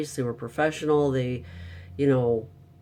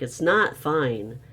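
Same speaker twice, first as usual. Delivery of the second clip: firm retold anger. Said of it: "And I'm like".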